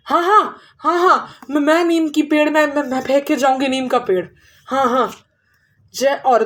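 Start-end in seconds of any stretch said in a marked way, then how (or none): 0.1-5.1 frightened agreement. Acted. Witch agrees in fear.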